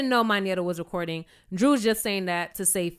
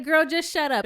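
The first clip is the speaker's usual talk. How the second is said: dismissive; 5 semitones higher than usual. Retold or imitated. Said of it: "Kenya's like".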